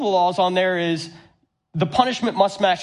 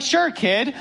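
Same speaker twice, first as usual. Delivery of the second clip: laughing reply; 6 semitones higher than usual. Retold or imitated. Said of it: "And so I'm like".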